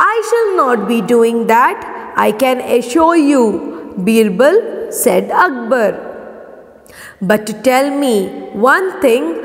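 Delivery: measured classroom read-aloud, dialogue lifted in pitch; story narration. A narrator's reading. Teacher reading Birbal's answer to pupils, story narration. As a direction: read the tale clearly, lightly raising the characters' lines.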